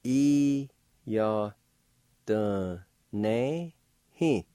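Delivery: "i, ya, de, ne, hi" each syllable apart; teacher spelling out "i, ya, de, ne, hi". Shown as a demonstration. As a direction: break "i, ya, de, ne, hi" into clean beats. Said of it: "Second part".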